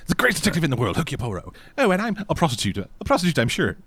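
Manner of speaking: badly faked French accent; attempted French accent. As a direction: play both sides in a wobbly French accent. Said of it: "I can't do a French accent".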